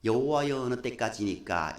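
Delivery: low, soft and reserved; subdued, well-mannered scripture reading; polite, restrained reading. Shown as a demonstration. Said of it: "우리는 점잖하게 읽습니다".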